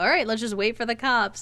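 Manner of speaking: plain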